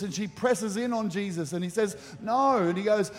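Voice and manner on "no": mild mock refusal, pitched up; acted-out firm no; pushing back. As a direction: refuse her, lightly acted. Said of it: "he's pushing back on her".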